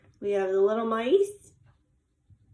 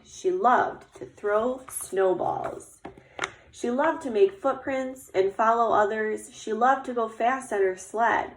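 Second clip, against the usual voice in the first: put-on lively, measured read-aloud to children; story narration. A narrator's reading. Teacher reading about Little Bear getting dressed for snow, storytelling voice. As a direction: read it like a picture book, lingering on descriptions. Reads picture book aloud.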